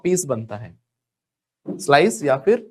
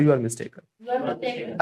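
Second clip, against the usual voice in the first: mock scolding, slow; 6 semitones higher, 6 dB quieter, much slower than usual. Shown as a demonstration. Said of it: "बोलो".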